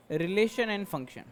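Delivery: slow, word-by-word English term for the class. Shown as a demonstration. Teacher slowly giving students the English term, deliberate. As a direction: spell it out slowly, every syllable clear. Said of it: "इसे English में बोलते हैं".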